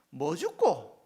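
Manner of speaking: God's offer in a light Busan dialect. Retold or imitated. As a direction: ask "뭐 죽고?" casually in Busan dialect. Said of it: "부산 사투리로 이렇게 얘기하시는".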